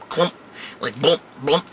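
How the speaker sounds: short hollow plops; imitated splash. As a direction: mimic something dropping into water. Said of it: "you hear a splash and a clump".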